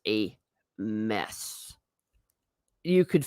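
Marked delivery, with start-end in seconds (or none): 0.1-1.7 quiet admission. Real, not acted. Remembering the concentration camp visit.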